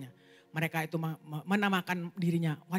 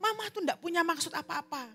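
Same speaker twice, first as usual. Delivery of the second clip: high-pitched retold denial; protesting mother; 7 semitones higher than usual. Mother explains herself to hurt daughter, protesting. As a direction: protest your innocence, starting very high.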